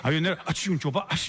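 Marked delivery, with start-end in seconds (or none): 0.5-0.7 quick mock sneeze; acted sneeze. Drunk man sneezing mid-story, mock sneeze. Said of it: "estaba est-, estornudando". 1.1-1.3 quick mock sneeze; acted sneeze. Drunk man sneezing mid-story, mock sneeze. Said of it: "estaba est-, estornudando".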